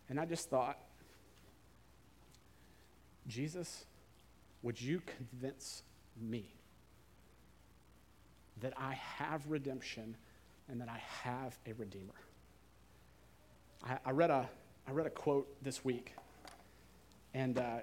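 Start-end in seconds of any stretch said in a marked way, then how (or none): 3.3-12.1 quiet prayer. Real, not acted. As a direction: ask it gently, like a prayer under the breath. Private prayer to Jesus.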